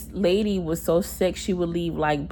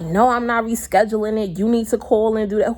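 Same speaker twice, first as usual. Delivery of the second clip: retold firm refusal, slightly higher; arguing social worker; 4 semitones higher than usual. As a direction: act out an unhelpful worker refusing. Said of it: "arguing with me or whatever".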